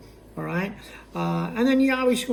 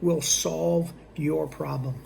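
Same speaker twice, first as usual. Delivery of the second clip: slow pre-close question; 3 semitones lower, 4 dB quieter than usual. Shown as a demonstration. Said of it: "and I say".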